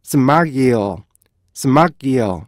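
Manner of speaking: slow, clipped smile with each part cut off; slow syllables. Shown as a demonstration. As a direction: smile broken into four beats. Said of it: "이걸 좀 더 천천히 해볼까요".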